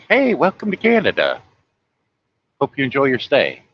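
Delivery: lightly voiced cheerful welcome; imitating an easygoing local's hello; friendly Canadian greeter. Voices laid-back Canadians greeting visitors.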